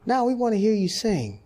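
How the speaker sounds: high, loud call from the audience; a heckler calling out to a singer; heckler from the crowd. Retold or imitated. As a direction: shout it up from the seats.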